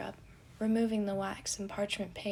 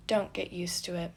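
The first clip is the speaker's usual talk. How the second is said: deadpan. Acted. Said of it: "Logan deadpanned".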